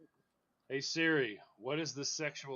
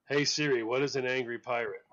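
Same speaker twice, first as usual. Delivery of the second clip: repeating to voice assistant; 8 dB louder than usual. Real, not acted. Loud query to Siri.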